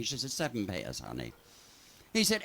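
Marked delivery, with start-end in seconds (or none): 0.3-1.3 sultry American lady. Retold or imitated. American tourist purrs her answer.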